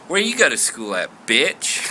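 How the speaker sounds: a hint of Southern sass; Southern lady. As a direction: deliver the punchline in a light Southern accent. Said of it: "The Southern lady goes".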